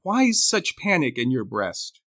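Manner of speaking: measured poetry reading with deliberate pauses; poem recital. Acted. Co-host closing the show with a Burns poem, reciting.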